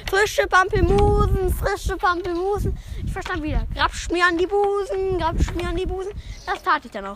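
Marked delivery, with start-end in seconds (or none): 0.1-2.8 high, slow vendor's cry; market woman calling out. Acted. Woman selling at the market, calling out. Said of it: "rief sie wieder". 3.7-6.1 mimicked market cry. Joke teller mishearing the market woman, sing-song cry.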